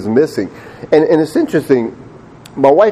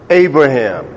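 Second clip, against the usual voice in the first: sudden, firm call; God calling out; 4 dB louder than usual. Acted. God stopping Abraham at the last moment, firm call. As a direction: call the name out to halt him. God calls to halt the knife.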